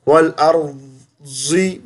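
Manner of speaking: अर्जी with a "j" sound; wrong "j" in अर्जी; wrong reading. Shown as a demonstration. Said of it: "जा भी नहीं".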